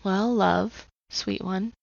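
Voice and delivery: put-on lovingly calming a hurting child; gentle voice of God. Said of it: "heard very audibly the words".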